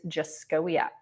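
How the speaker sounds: "Jaskowiak" sounded out slowly for listeners; surname pronunciation demo. Shown as a demonstration. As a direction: show how to pronounce "Jaskowiak". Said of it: "my last name is pronounced like this".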